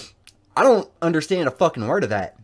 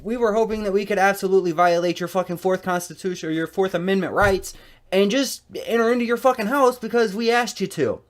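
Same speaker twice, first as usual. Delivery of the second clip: mocking her, pitched higher as it builds; snide parody of the caseworker; sarcastic mock; 5 semitones higher than usual. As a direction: sneer out her plea as if it's absurd.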